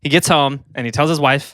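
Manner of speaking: slightly winded storytelling; out of breath. Real, not acted. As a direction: talk while a bit out of breath. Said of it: "Are you out of breath".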